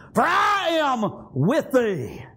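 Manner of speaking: drawn out, shouted promise; slow shouted proclamation. Acted. Preacher proclaiming God's promise, slow shout. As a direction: stretch every word like a proclamation.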